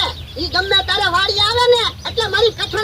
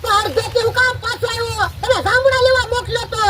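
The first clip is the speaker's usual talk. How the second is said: angry scolding; 5 semitones higher than usual. Acted. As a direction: scold the servant, higher and fast. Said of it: "અવાજ નીચો હો". (ગુસ્સાથી ઠપકો)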